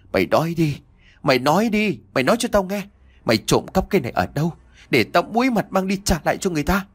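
humiliated father demanding an explanation; trembling with rage. Acted. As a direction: voice shaking with indignation, rising. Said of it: "cất giọng run rẩy vì uất ức".

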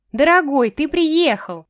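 loud, high, gushing greeting; overjoyed mother calling out; delighted mother. Acted. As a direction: beam at your grown son across the room. Mother greets her son.

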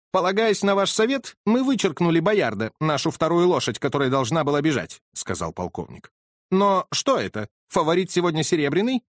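puzzled owner reading odds; colonel voice. Acted.

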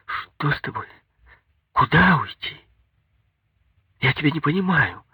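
high voice of a confused, scared wife; startled, lost and high-pitched; frightened, bewildered. A narrator's reading. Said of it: "испугалась и растерянно спрашивала".

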